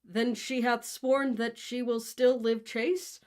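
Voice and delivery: slow, lofty Shakespearean delivery; mock-grand question. Benvolio mimicking Romeo's verse, slow lofty question. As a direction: ape Romeo's grand style back at him. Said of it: "He holds out a hand in front of him and asks".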